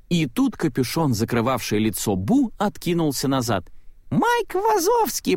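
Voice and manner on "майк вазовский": «Майк Вазовский» очень высоко, медленно, по-детски радостно; произнеси имя как маленькая девочка; голос малышки. A narrator's reading. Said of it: "произнесла малышка". (Бу радостно называет Майка, тонким детским голоском)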